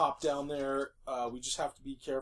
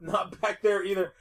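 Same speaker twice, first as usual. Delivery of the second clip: mocking echo; 4 semitones higher than usual. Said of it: "Way to be subtle".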